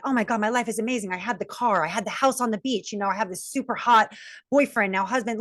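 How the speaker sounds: a hint of a show-off faking happiness; mock bragging. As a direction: rattle off the perfect life, faking it. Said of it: "put on this facade that everything was awesome".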